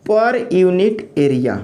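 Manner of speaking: very slow, word by word; slow dictation. Shown as a demonstration. Teacher dictating a definition to the class, very slow. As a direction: spell it out slowly for students to write down. Dictating stress formula slowly.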